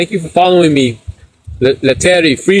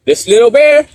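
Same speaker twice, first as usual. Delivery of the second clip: playful showing off; 7 semitones higher, 3 dB louder than usual. Real, not acted. Showing bear to camera.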